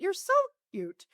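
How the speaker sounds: high, soft mock-sweet voice; patronizing coo. Universe teasing her for thinking small, cooing. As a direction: coo it softly, as if to someone naive.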